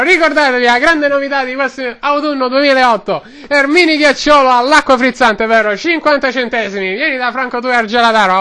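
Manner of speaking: lightly voiced Roman street vendor; Roman-accented vendor rambling away; Roman ice-cream seller. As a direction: talk like a chatty Roman gelato man.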